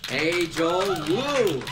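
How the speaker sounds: excited. Acted. Host enthusiastically greets cohost.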